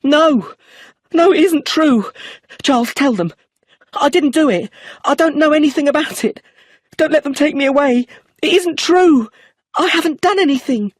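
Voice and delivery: high, loud panicked scream. A narrator's reading. Brenda screaming her innocence as she is arrested. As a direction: shriek it in terror, clinging on. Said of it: "She held on to me and screamed".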